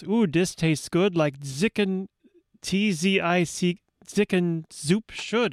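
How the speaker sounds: "Zicken Zoop" said slowly, with z sounds opening both words; careful dialect pronunciation. Retold or imitated. Radio host reading album liner notes, careful dialect pronunciation. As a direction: read "dis" with a d, slowly and deliberately. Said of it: "I should pronounce this correctly".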